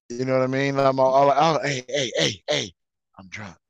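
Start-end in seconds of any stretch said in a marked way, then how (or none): 1.4-3.6 a lightly played sloppy drunk; getting drunker. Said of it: "that's me as a drunk".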